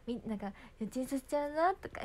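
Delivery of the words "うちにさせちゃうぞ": playful, higher idol tease; cute idol line. Shown as a demonstration. Idol teasing her fans, cute and playful. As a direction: toss it out like a flirty idol. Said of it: "十代の頃の方がこんなことやんなかった".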